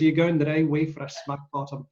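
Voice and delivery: Scottish accent, quoting a cartoon ogre; playful film-line imitation in a Scottish accent; Mike Myers' Shrek. Fan quoting the film he learned Scottish from, Scottish accent. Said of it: "It's probably from Shrek because".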